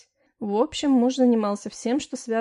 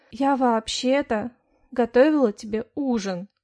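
defiantly; 2 semitones higher, 5 dB louder than usual. Acted. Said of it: "с вызовом ответила на вопрос".

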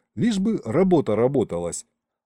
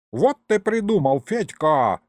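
high, loud delighted yell; the ghost yelling to Fedka, thrilled; 6 semitones higher, 3 dB louder than usual. A narrator's reading. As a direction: shout out in glee. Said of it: "завопил лиховид".

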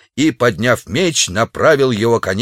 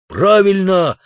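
high, louder cry of agreement; eager shout; 9 semitones higher, 3 dB louder, slower than usual. A narrator's reading. Naked savage shouting his agreement, high eager cry. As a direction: shout your approval. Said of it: "закричал голый дикарь".

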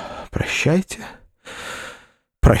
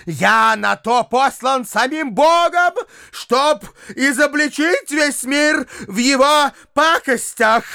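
triumphant ranting; 10 semitones higher than usual. A narrator's reading. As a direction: proclaim it to the whole world. Foma's triumphant denouncing rant.

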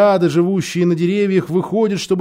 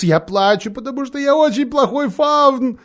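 tearful; 8 semitones higher than usual. A narrator's reading. Faun sobbing confession.

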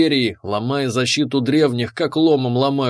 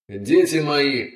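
proclaiming; slower than usual. Acted. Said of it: "вещал Вазар".

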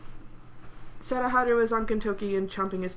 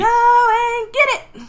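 loud, high, drawn-out call; fetch command; 11 semitones higher, 11 dB louder, much slower than usual. Acted. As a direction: send the dog chasing after it. Acted fetch command to pet.

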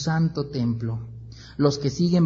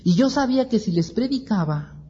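higher, resentful whine; angry complaint; 7 semitones higher than usual. Acted. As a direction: grumble bitterly. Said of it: "Jonás se enoja".

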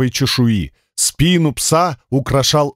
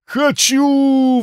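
much higher, yelping want; howling dog; 11 semitones higher than usual. Acted. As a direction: howl it like a starving hound. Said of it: "взвыл несчастный". (пёс взвыл, очень высоко)

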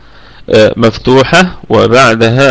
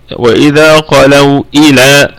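slow, measured tajweed recitation; Quranic recitation; slower than usual. Shown as a demonstration. Tajweed teacher reciting a verse for students, slow recitation. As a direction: recite slowly with careful articulation. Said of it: "هكذا".

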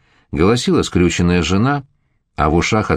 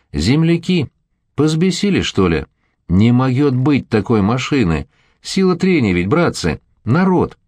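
pleading shout; 5 semitones higher than usual. Acted. Addressing hostile crowd.

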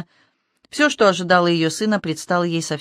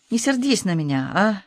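plaintive plea; 3 semitones higher than usual. Acted. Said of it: "жалобно попросил он".

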